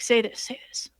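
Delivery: softly retold whisper; a player slipping a line to another. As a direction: pass it on under your breath, lightly mimicked. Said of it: "he whispers to the Bard player".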